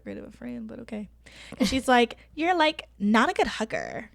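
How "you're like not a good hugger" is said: Valley Girl accent, a bit mocking. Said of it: "in her, like, Valley Girl voice".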